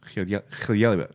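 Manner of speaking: хлеба said slowly, sounding it out; slow Russian attempt. Shown as a demonstration. Learning the Russian word for bread, slow. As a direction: stumble through хлеба carefully. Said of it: "that's a tongue".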